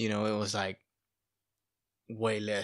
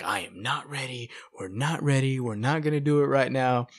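raised, louder voice of a panicking wife; wife flipping out; 3 semitones higher, 4 dB louder than usual. Retold or imitated. Wife retelling her panic over money, mildly agitated. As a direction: retell her worried rush of protest. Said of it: "So she was flipping out".

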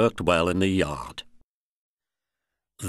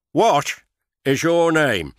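kindly; 7 semitones higher, 6 dB louder than usual. A narrator's reading. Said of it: "asked the Fat Controller kindly".

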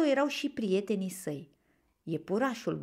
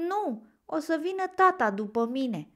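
higher-pitched hesitant reply; unsure; 8 semitones higher, 4 dB louder than usual. A narrator's reading. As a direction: answer with a touch of doubt. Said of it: "răspunse Bambi nesigur". (ușor nesigur)

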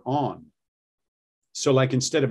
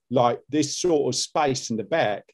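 Cockney demo. Shown as a demonstration. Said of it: "when you're doing Cockney".

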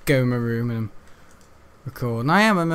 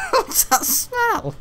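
shocked shout; much slower than usual. Pretend. Acted disgusted shout.

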